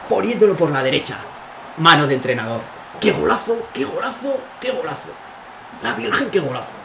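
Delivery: loud high shouts of joy; breakneck goal commentary. Real, not acted. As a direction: yell the goal in delight. Celebrates a goal. (narración de gol eufórica)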